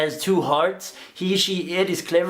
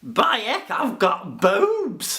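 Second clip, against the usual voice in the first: put-on Yorkshire accent; 5 semitones higher, much slower than usual. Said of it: "impressions that well".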